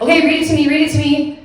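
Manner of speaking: high, loud, anxious plea to hear it now; begging to know what the email says; anxious urging. Retold or imitated. To her sister about the sad email, high anxious urging.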